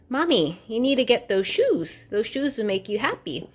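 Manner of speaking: a hint of a small boy coaxing his mom; lightly voiced little son. Mom retells son urging her to buy shoes, lightly voiced child.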